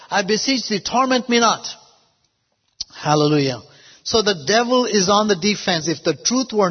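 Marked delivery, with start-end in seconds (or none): 0.1-1.7 higher-pitched mild plea; retold fearful cry. Possessed man begging Jesus, mildly acted fearful cry. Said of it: "he cried out in fear".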